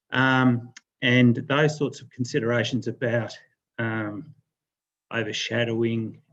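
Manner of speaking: breathless after running, winded; out of breath. Real, not acted. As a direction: talk while catching your breath. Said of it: "I'm a bit short of breath running across the road".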